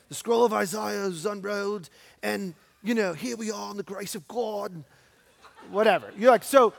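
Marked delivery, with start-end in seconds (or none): 0.1-4.7 a hammed-up, bad British accent, lightly done; mock posh British reading of scripture; terrible British accent. Preacher mocking a scripture reading in a terrible British accent. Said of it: "it was a terrible British accent".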